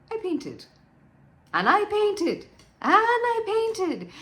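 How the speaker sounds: repeated phrase climbing from high and contained to a long, high cry; escalating obsession. Acted. Wife recounts painting on and on, increasingly frantic.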